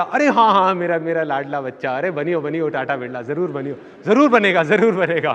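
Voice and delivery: delighted doting mother. Retold or imitated. Mother humouring her darling son's dream, mock delighted gushing. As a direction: lightly imitate a gushing mother. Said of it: "बहुत खुश होती है".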